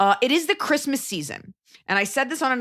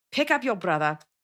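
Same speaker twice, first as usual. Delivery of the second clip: put-on South African accent. Imitating a friend's parents from growing up: south african accent. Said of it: "And this is how they sounded".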